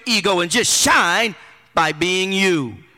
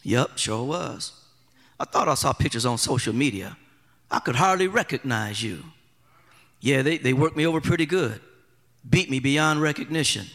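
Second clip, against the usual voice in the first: Jesus voice; 9 semitones lower, 6 dB quieter than usual. Retold or imitated. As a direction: speak low and soft like a beaten man. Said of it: "the conversation probably would have gone something like this".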